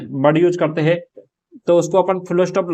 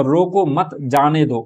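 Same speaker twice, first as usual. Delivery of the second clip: slow रोको मत, a break, then जाने दो; group रोको with मत, then release जाने दो; pause after मत; slower than usual. Shown as a demonstration. Teacher showing students the moved comma, pause after मत. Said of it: "मत के बाद में".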